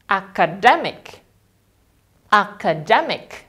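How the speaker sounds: academic said slowly, stress on DE; slow model academic with DE stressed. Shown as a demonstration. Teacher modelling academic stress for students. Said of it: "penekanannya tepat satu suku kata sebelum".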